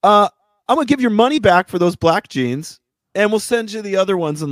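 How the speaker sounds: high, quick chirpy clerk; customer service rep voice. Retold or imitated. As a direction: mimic the rep's cheerful offer. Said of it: "She goes".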